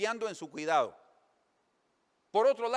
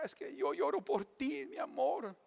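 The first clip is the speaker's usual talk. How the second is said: crying husband; 7 semitones higher than usual. Acted. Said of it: "el marido está llorando".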